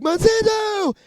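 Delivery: high, loud shouted name; imitated voice. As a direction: call the name out like a strange voice. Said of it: "Sometimes it's like".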